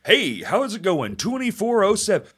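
put-on radio announcer greeting. Podcaster shows how radio announcers talk, announcer voice. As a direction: do an old-style announcer delivery. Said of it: "same thing happened with radio announcers".

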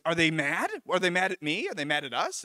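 imitating a worried housemate, rising questions; mock-anxious rapid-fire questioning; panicky. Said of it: "he starts panicking".

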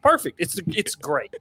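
satisfied gush. Retold or imitated. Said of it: "I was just like".

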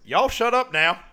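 high, loud imitated order; mock teacher yell. Teacher walks into class, mock yelling. Teacher storms in, a favourite line.

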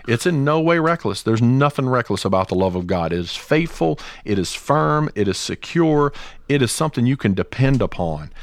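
high-pitched, measured declarations of faith; emphatic preaching. Real, not acted. Podcaster affirming God's love to listeners, emphatic preaching. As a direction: drive each short statement home like a sermon.

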